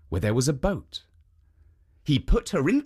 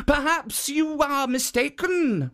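higher, mild feigned innocence; raised innocent guardian voice; innocent statue voice; 13 semitones higher than usual. Acted. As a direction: play it innocent to fool the ogre. Jitso deflects the ogre.

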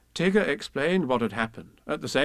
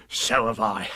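Tigger voice; 3 semitones lower, slower than usual. Acted. Tigger character voice.

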